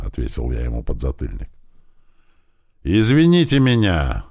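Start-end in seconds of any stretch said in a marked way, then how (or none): 2.8-4.2 louder, higher, forced apology shout; louder cry. A narrator's reading. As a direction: cry it out under orders. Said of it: "громче крикнул Михайлов". (громко выкрикнуть извинение)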